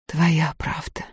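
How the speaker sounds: soft sighing agreement. A narrator's reading. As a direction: sigh the words out, resigned. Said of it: "вздохнула Устинья".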